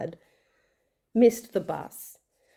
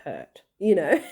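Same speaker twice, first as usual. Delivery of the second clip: lighthearted; 3 semitones higher than usual. Retold or imitated. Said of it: "I just lightheartedly said to her".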